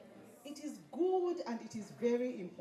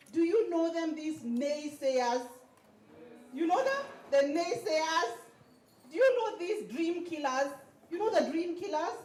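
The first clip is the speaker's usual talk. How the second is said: higher, louder, fired-up questions; rousing questions; 5 semitones higher, 6 dB louder than usual. Real, not acted. Preacher rouses audience about naysayers, loud and excited. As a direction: work the crowd up. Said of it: "rousing the crowd".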